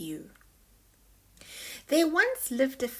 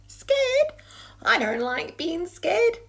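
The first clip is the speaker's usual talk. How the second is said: alarmed; 9 semitones higher, 6 dB louder than usual. Acted. Sneezy alarmed.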